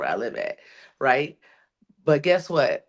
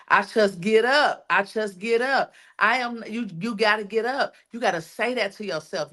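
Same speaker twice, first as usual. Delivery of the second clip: higher-pitched, real emotion rising; emotional, tearing up; 6 semitones higher than usual. Real, not acted. Speaker urging herself and others to get up, emotional. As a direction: push on through welling tears. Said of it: "I'm getting emotional. Ooh, I'm tearing up".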